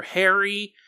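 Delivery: "hairy" drawn out for emphasis; stress on hairy. Real, not acted. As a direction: lean on the word "hairy", stretching it. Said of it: "don't know why I emphasized that word".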